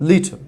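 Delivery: "লিটল" with a weak, swallowed last syllable; স্বাভাবিক ইংরেজি উচ্চারণ. Shown as a demonstration. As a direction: say "লিটল" short, almost no vowel before the final l. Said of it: "দেখেন আমি কি বলছি". ("লিটল"-এর শেষ syllable দুর্বল করে বলা)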